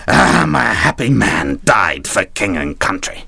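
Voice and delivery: slow, lightly hammed-up last words; mock dying hero. Wounded captain lying on the deck, mock-heroic dying speech. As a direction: mildly play a noble wounded captain. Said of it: "he'd clutch his latest wound".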